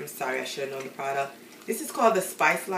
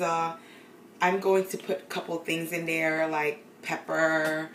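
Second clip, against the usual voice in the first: fake English accent. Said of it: "my fake English accent".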